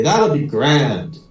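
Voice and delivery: drawn-out, contented Irish brogue; Irish accent. Acted. The other Paddy approves the plan, Irish accent. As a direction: agree slowly in an Irish accent. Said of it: "try out my Irish accent".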